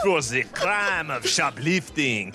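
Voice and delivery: put-on light French accent as a cop; a hint of a French accent, mock-stern. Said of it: "you're still French".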